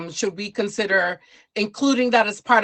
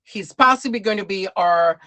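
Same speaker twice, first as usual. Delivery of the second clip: building stage intro, swelling at the end; host announcer; 3 dB louder than usual. Acted. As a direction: hype up the next guest like an MC. Host introduces next guest.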